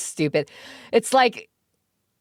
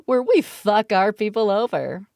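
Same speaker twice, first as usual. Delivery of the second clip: mock stewardess greeting. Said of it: "I started doing the".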